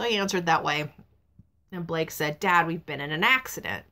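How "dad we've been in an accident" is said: talking through hiccups; words interrupted by hiccups. Real, not acted. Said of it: "I got the hiccups".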